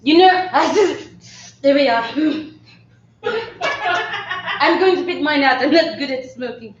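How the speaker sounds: put-on French accent. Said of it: "see a scene of that character".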